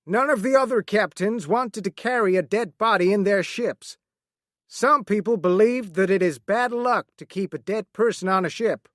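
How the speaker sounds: a hint of a sober sea captain; captain's voice. Captain explains.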